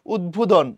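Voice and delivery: উদ্বোধন with the b sounded, "ud-bodhon"; sounded bofola. Shown as a demonstration. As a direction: keep both d and b in উদ্বোধন. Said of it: "বফলার উচ্চারণ হয়".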